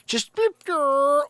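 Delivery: high beep, rolled growl; vocal sound effect for a dog leaping over; high, loud cartoon whoosh noise; imitated jump noise. Imitates dog clearing the fence.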